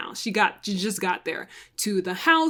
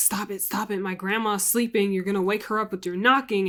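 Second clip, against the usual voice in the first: put-on muttering voice. Retelling how the woman answered the agent's knocking, imitating Gina muttering. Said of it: "she's just muttering".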